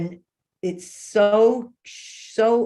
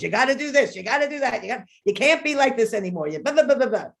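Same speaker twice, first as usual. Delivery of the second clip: retold yell; 5 semitones higher, 3 dB louder, faster than usual. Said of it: "I'm yelling at this girl at the top of my lungs".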